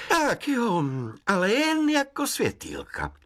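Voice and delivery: high, odd woodland voice; forest spirit. Acted. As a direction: speak like a kindly sprite. Hejkal speaks.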